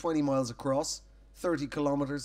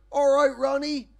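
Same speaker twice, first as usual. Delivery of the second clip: bright, higher cheerful hello; friendly greeting; 7 semitones higher, 7 dB louder than usual. Retold or imitated. Comedian greeting his neighbour, a bit higher and brighter. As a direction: greet him brightly over the car. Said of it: "I'd be like".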